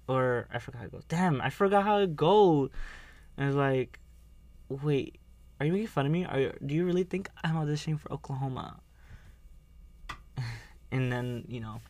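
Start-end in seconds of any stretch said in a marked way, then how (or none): 4.7-8.8 mock offended. Quoting offended character.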